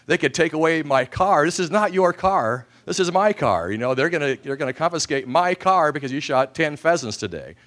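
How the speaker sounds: loud, high-pitched scolding dad; exasperated father. Retold or imitated. Father scolding his son over the confiscated car, loud and exasperated. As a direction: rant at the son about losing the car.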